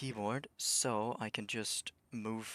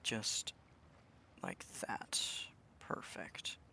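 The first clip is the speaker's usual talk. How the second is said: whispering; 9 dB quieter, much slower than usual. Real, not acted. Tense precise game move.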